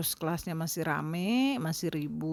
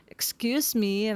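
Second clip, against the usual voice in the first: louder excuse me; 4 semitones higher, 4 dB louder, slower than usual. Shown as a demonstration. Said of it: "agak lebih keras".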